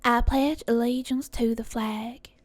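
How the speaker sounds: relaxed Southern accent, open mouth; a fair stab at a Southern accent. Shown as a demonstration. Testing the accent on the pledge, Southern accent. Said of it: "Not bad southern".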